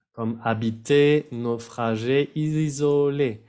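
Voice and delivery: each of "habiter, naufrager, isoler" ending on a held é; French pronunciation demo. Shown as a demonstration. Teacher lists E-ending words, "habiter, naufrager, isoler" all in é. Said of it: "sí se va a pronunciar E".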